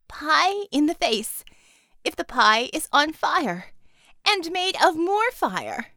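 in awe. Acted. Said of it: "Bella said in awe".

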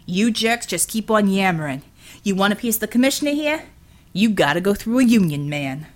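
a working man stepping in to stop a beating; defiant Brooklyn union man. Acted. Hensel taunting.

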